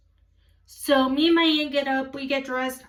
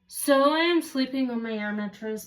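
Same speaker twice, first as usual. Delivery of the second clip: ordinary delivery, nothing marked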